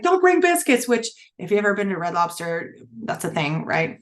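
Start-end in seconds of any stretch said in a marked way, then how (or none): 0.0-0.9 retold plea. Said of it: "I was like".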